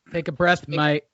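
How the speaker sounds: put-on half-hearted English accent; calm someone down in a loose mock-English accent; attempted English accent. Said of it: "I don't do an English accent".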